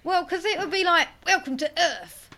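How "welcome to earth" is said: louder, higher mock American voice, like Mister T; hammed-up American accent, a bit tough; attempted American accent. Shown as a demonstration. Mocking American accent for a podcast request. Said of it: "sounds like Mister T".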